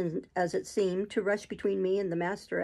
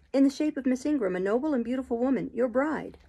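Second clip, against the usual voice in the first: bitter accusation; 5 semitones higher than usual. Acted. Jane accusing Rochester.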